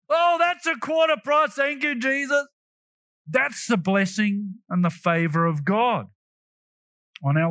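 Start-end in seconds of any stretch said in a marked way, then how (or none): 0.1-2.5 higher-pitched happy exclamation at a bargain; mildly delighted shopper. Acted. Shopper thanking Jesus for a quarter price, mild acted delight. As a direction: play a shopper pleasantly amazed.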